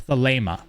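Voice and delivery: Thelema with a long AY in the middle; Thelema, middle syllable rhyming with "lay"; correct pronunciation. Shown as a demonstration. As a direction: say Thelema as thuh-LAY-muh. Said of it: "That's how you pronounce it".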